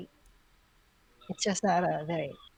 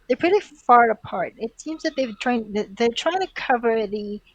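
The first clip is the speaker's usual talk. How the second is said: raised character voice; 3 semitones higher, 4 dB louder than usual. Acted. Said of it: "Wing says".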